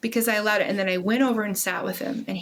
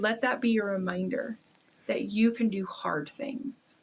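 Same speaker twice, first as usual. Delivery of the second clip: soft whisper; 5 dB quieter than usual. Retold or imitated. Mom whispering encouragement to son, hushed. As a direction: whisper it tenderly to the child. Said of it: "and I said".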